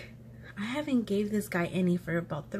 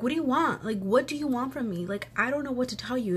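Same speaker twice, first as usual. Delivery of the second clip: higher-pitched, exasperated demand; retold arguing; 4 semitones higher than usual. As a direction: re-enact an argument, pitch raised but not shouting. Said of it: "Like, we're arguing".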